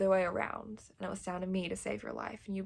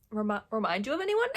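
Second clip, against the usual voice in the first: teasing excitement; 2 semitones higher, 5 dB louder, faster than usual. Real, not acted. Teasing question to viewers.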